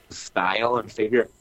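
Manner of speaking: with hiccups. Real, not acted. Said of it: "excuse me, the hiccups".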